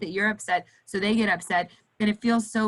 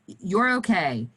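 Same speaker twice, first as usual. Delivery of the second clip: reassuring; 3 dB louder, slower than usual. Shown as a demonstration. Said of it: "is one that I use all the time".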